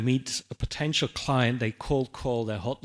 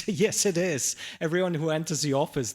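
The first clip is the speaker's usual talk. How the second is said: higher-pitched, amused disbelief; retold exasperated reply, pitched up; incredulous retort; 5 semitones higher than usual. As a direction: answer as if it's blindingly obvious. Answering trainee's obvious question, incredulous.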